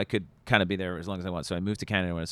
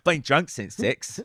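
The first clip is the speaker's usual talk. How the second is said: mock drunk; 4 semitones higher, 4 dB louder, slower than usual. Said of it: "It's like".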